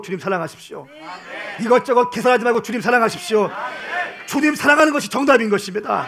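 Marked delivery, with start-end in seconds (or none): 1.6-6.1 loud, higher preaching push; preacher urging the congregation, loud and high; rising exhortation. Real, not acted. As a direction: drive it home to the crowd.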